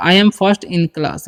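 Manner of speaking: very slow, word by word; spelled-out dictation pace; slow model reading. Shown as a demonstration. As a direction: say each word slowly for the class to copy. Teacher models English sentence.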